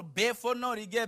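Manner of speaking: ordinary talk, nothing marked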